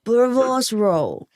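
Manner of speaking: slow, careful South African attempt; tentative South African imitation; imitating South African accent. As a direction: copy the South African pronunciation. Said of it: "I'll try to imitate you".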